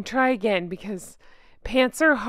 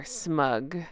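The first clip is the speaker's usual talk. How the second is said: smug caption; 8 semitones lower, 8 dB quieter than usual. Pretend. One-word smug caption.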